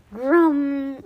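drawn-out rumbling monster growl; rumbling train growl. A narrator's reading. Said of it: "growl sounds like a rumbling train".

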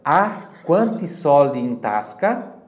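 teacher model to repeat; slow model phrase. Shown as a demonstration. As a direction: lay out each word for the class to echo. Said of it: "Repita em voz alta".

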